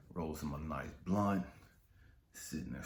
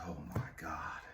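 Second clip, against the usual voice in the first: whisper; 5 dB quieter than usual. Retold or imitated. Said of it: "and he's like".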